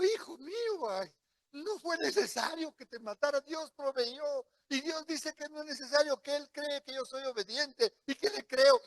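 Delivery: alto y emocionado, lleno de alivio; abrázalo con la voz, aliviado; tierno a su hijo. Pretend. Padre habla al hijo imaginado. (padre aliviado habla tierno a su hijo)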